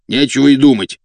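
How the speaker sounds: громче и выше, наотрез; отрежь, не допуская обсуждения; категоричный отказ. A narrator's reading. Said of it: "отрезал Фрол". (категорично, наотрез)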